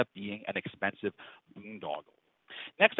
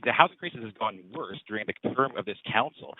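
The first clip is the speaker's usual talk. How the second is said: close to the mic; 3 dB louder than usual. Real, not acted. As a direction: clear and close-miked, louder. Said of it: "I hold my microphone right close".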